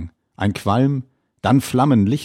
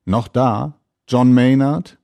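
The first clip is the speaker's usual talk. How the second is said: laut gerufene Frage übers Wasser; durchs Sprachrohr rufend; 3 semitones higher, 6 dB louder than usual. A narrator's reading. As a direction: ruf es noch einmal durchs Sprachrohr. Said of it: "durchs Sprachrohr fragt er an". (laut durchs Sprachrohr rufen)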